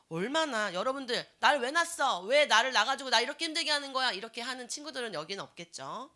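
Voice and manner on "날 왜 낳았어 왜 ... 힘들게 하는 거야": loud, fast, resentful yelling; angry teen shout. Retold or imitated. Preacher acting a teenager yelling at mom, angry. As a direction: yell it at your mother.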